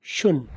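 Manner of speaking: शुन, shouldn't with no t; "शुन" short, ending on n; shouldn't as shun; weak shouldn't. Shown as a demonstration. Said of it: "वीक बनाओगे तो बनेगा".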